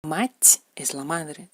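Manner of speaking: "Mach" lento, con la t ablandada como ch; soft sign. Shown as a demonstration. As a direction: di "Mach" despacio con final suave. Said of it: "colchón". ("Mach" con signo blando, despacio)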